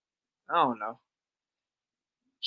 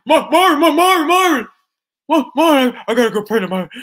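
high, loud mock wail for Marvin; mock crying; 11 semitones higher, 11 dB louder than usual. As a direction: ham up a panicked whiny cry, calling Marvin. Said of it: "he went crying to Marvin".

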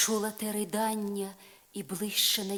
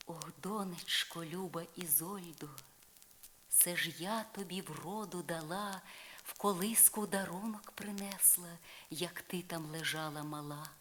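put-on softer, hushed old fairy voice; fairy Morgana murmuring to Isolde; gentle fairy godmother; 5 dB quieter than usual. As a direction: soothe your goddaughter softly. Morgana answers her goddaughter.

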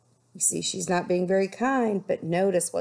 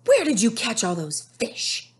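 higher, louder demanding question; 5 semitones higher, 4 dB louder than usual. Acted. Nettie demanding answers from Amabel, louder and higher. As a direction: push her to answer. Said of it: "Nettie demanded".

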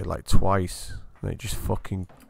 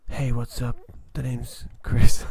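mock ASMR host; 5 dB louder, slower than usual. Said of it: "What's with that, like, whisper?".

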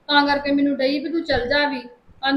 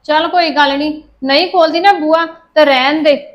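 angry threat; 7 dB louder than usual. Acted. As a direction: spell out a threat through the locked door. Shut out, she threatens through door. (ਧਮਕੀ ਭਰੀ ਉੱਚੀ ਆਵਾਜ਼)

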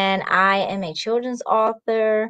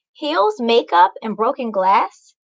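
scolding mom. Acted. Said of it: "Mama yelled".

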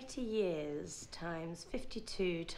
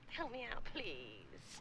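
pleading; 7 dB quieter, slower than usual. Acted. Pleading with rescuer for help.

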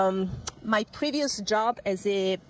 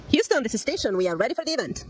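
thin transmitted radio sound; sci fi communicator; 2 semitones higher, 3 dB louder than usual. Real, not acted. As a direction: voice over a radio link. Station answers over radio.

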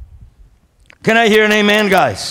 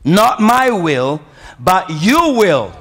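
slow, deliberate phrases with weight on "will"; stress on will; slower than usual. Shown as a demonstration. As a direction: underline each "will", drawing it out slowly. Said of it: "I want you to underline the word will".

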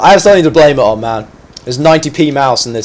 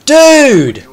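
high, drawn-out cry of disbelief; exasperated outcry; 10 semitones higher, 4 dB louder, much slower than usual. Real, not acted. Gamer reacting to a bad moment in game, exasperated outcry. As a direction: wail it out in real exasperation.

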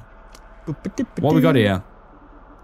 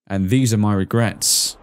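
dramatic intro read; 4 semitones lower than usual. Acted. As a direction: read it like a brooding opening line. Reads game intro dramatically.

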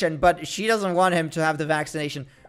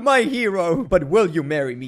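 a hint of a swooning damsel, pitched up; rescued girl. Girl thanks the player for helping, lightly voiced damsel.

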